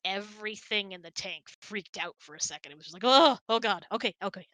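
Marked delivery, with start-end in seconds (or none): 3.1-4.5 sudden loud panicked yelp, hammed up; mock panic. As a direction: play the startled fish in a tank crying out. Fish panicking at shark zigzag.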